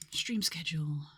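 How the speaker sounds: whispered to self; whispering. Real, not acted. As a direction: breathe it under the breath. Mutters while searching files.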